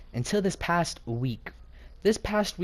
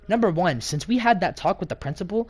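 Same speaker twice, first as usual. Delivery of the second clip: raised, higher retold argument voice; indignant retort; 4 semitones higher, 3 dB louder than usual. Student answering back to his teacher, indignant. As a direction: push back firmly, counting off the grievance.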